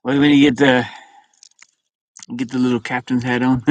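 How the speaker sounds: whispered question to himself; whispering while fiddling with the hat; whisper to self. Real, not acted. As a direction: breathe it out, no voice. Asking himself while adjusting hat.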